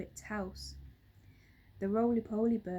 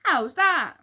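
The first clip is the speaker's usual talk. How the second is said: much higher, loud shrill nag; shrill old wife; 10 semitones higher, 11 dB louder, slower than usual. A narrator's reading. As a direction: screech it like a cranky old wife. Missus Twit approving.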